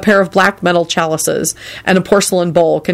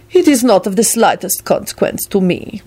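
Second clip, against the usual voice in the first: cold, a little higher, detached; frigid; 4 semitones higher than usual. A narrator's reading. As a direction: freeze him out politely. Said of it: "Radu replied frigidly".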